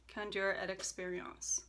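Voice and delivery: lightly French-accented product name. Shown as a demonstration. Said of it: "That's my French accent for you all".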